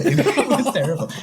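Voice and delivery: laughed out through a grin; amused groan of disbelief; laughing. Real, not acted. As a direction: laugh while calling it terrible. Laughing at a bad game.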